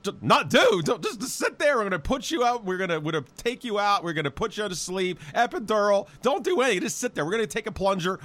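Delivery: mildly mock-officious hospital staff; lightly voiced doctors. Hospital doctors brush off the mother, lightly mock-bossy. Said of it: "She goes".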